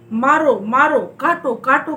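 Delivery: loud shouted battle cries. Acted. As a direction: yell it like soldiers charging in the fray. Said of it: "की ध्वनियां सुनाई पड़ती हैं".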